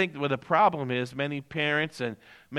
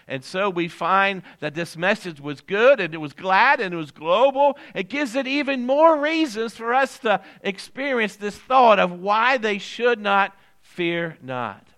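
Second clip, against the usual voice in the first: raised, emphatic preacher's delivery; preaching; 8 semitones higher, 8 dB louder than usual. Real, not acted. Pastor assuring the congregation of everlasting joy, preaching. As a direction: build it up like a preacher driving home a promise.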